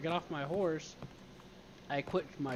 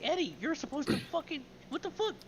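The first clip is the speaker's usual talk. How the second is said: high, louder incredulous shout at Eddie; exasperated outburst; 13 semitones higher, 4 dB louder than usual. Retold or imitated. Scolding Eddie for leaving him, high incredulous shout. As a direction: squeal it out in disbelief, half mock.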